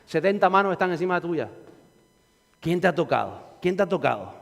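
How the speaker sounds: a lightly voiced incredulous disciple; Peter's baffled reply. Peter answers the master about the crowd, low and soft. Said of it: "y dice Pedro".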